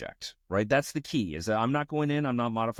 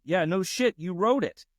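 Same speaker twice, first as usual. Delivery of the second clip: exasperated retort; 8 semitones higher than usual. Real, not acted. Coder snapping at the AI that wrote the code itself, exasperated. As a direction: snap back in disbelief. Angry at the AI.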